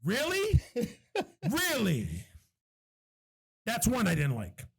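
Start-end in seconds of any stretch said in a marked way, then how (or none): 0.0-0.6 high rising "Really?", retold disbelief; incredulous reaction. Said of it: "I was like". 1.5-2.1 falling "Really?", retold disbelief; unimpressed disbelief. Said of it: "I was like".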